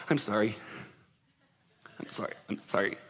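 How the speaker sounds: soft, low, halting sorry; mock choked apology. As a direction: imitate someone apologizing through held-back tears. Acting out tearful apologies.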